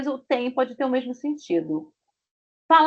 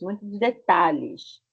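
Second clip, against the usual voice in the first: muitos detalhes said again slowly; careful classroom repetition; slow repeat; slower than usual. Shown as a demonstration. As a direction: repeat it slowly so they get it. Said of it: "A lot of details".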